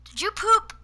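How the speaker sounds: a startled parent's sharp question; shocked question. Retold or imitated. Mother finding the stain asks her son, high and loud. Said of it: "She goes".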